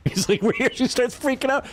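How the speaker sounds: high, giggly retelling; laughing while telling. Real, not acted. Gamer retelling a cop show to a friend, cracking up. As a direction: talk through real laughter, pitch climbing.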